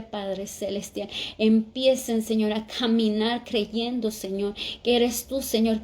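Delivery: a preacher calling on the Heavenly Father again and again; fervent prayer. Real, not acted. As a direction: pray aloud over the sisters, building in force.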